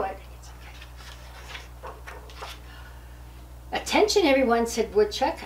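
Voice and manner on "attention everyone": high, louder call for attention. Acted. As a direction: grab the room's attention. Woodchuck calling the room.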